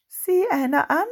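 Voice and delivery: high, loud mock surprise; menacing. A narrator's reading. Freddy looms over the fallen Bulli, menacing mock surprise. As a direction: lean over him with a threat in it. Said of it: "beugte sich drohend über ihn".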